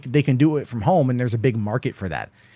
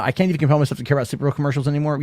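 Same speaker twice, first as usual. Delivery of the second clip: usual speaking voice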